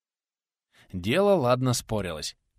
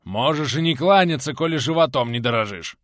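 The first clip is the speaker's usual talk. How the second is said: hoarse; 3 semitones higher, 6 dB louder than usual. Acted. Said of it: "Хрипло раздалось в ответ".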